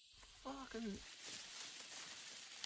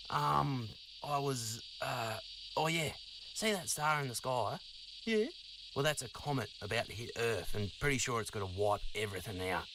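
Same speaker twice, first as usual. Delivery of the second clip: a dinosaur suddenly remembering who he is; Donny the dinosaur; 11 semitones lower than usual. Acted.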